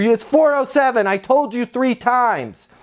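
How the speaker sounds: high, exasperated resident voice; mock exasperation, high and insistent; upset resident. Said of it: "current resident that's upset".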